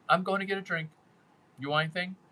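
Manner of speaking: casual deadpan, little expression. Shown as a demonstration. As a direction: toss out the offer deadpan. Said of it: "And you kinda do a deadpan".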